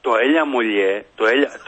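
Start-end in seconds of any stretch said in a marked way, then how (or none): 0.2-0.9 mock Athenian caller, "έλα" turned into "έλια"; προφορά με ελαφρύ λάμδα. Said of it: "Άντε πάλι τα ίδια". 1.3-1.5 mock Athenian caller, "έλα" turned into "έλια"; προφορά με ελαφρύ λάμδα. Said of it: "Άντε πάλι τα ίδια".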